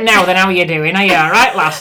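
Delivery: loud, hearty broad Yorkshire accent; broad Yorkshire greeting. Shown as a demonstration. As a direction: greet them like a Yorkshire local. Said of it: "back home into summer holidays".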